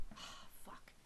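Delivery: breathy, unvoiced muttered swear; muttered curse. Real, not acted. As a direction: curse under your breath, startled. Startled by the bird moving.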